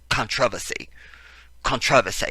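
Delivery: "controversy" stressed on TROV, mock British; fake British accent. Host showing off his practised word, fake British accent. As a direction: practise "controversy" as a put-on Brit. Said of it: "fake British accent".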